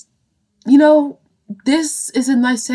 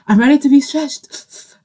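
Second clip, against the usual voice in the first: laughing through the words, pitched higher; giggly, higher-pitched confession; nervous laughter; 3 semitones higher than usual. Real, not acted. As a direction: break up laughing while admitting it. Laughing nervously at coming challenge.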